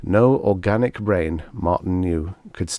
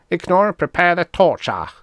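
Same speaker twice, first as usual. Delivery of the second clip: menacing order; 11 semitones higher, 5 dB louder than usual. A narrator's reading. Commander orders torture.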